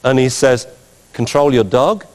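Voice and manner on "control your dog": "Control your dog" rising at the end like a question; rising intonation. Retold or imitated. Judge to the handler, "Control your dog" with hopeful rising intonation. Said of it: "Rising intonation. Meaning, it's kinda like, "I hope so".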